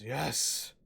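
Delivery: lightly voiced sly hobgoblin, slow and menacing; a hint of a gloating goblin chief. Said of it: "the hobgoblin says".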